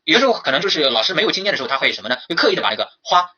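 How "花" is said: 花 given deliberate, exaggerated weight; over-heavy 花. Shown as a demonstration. Teacher imitating an inexperienced teacher, 花 deliberately over-stressed. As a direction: lean too hard on the single syllable 花. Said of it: "那个音啊放得特别的重".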